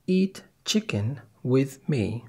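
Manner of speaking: Eat chicken with me read slowly and clearly; slow quiz option; misheard option. Shown as a demonstration. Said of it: "What did you hear".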